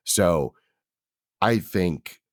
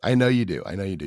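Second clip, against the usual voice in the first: raspy, worn-out sick voice; sick hoarse voice; faster than usual. Real, not acted. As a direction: talk through a sore throat. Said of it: "pretty similar to the N P R voice".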